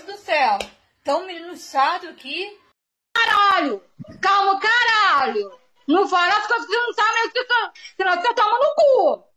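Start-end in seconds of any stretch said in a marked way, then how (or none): 3.1-9.3 high-pitched, furious shout; real angry yelling. Real, not acted. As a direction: yell at them to back off. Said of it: "Por que que você tá gritando, Maria?". (gritando com raiva, voz aguda)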